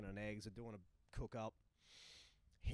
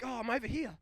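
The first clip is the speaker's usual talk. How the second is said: put-on answering drunk; 10 semitones higher, 9 dB louder, faster than usual.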